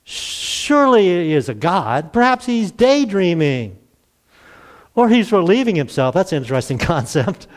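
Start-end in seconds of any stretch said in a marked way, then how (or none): 0.0-6.1 mocking. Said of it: "Elijah began making fun of them".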